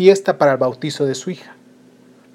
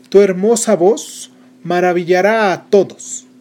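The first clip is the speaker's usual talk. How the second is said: slow, higher, solemn blessing; fairy godmother; 4 semitones higher, 5 dB louder than usual. Acted. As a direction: grant the gift slowly, like a spell. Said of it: "La quinta". (hada madrina bendiciendo despacio)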